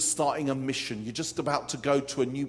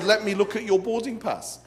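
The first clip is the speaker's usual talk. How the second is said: higher, louder, through laughter; laughing retelling; 6 semitones higher, 5 dB louder than usual. Retold or imitated. Preacher retelling the attendant's words, laughing. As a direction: tell it while cracking up. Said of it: "She said".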